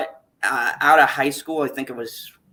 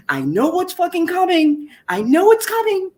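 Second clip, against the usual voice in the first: welling up; 14 semitones higher than usual. Real, not acted. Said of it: "I feel the welt".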